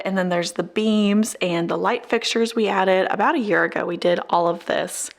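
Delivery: slightly winded from allergies, short of breath. Real, not acted. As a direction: talk a little short of breath. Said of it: "excuse me if I sound a little short of breath".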